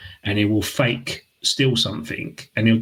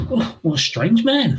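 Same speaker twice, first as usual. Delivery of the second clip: high, slow, through laughter; retold host line through laughter; laughing quote; 11 semitones higher, slower than usual. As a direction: giggle out the host's line. Host's quoted reaction, laughing.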